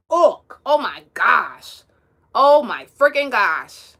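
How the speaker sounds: drawn-out delighted oh my gosh; raving about food. Real, not acted. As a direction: savour each word, overcome by the food.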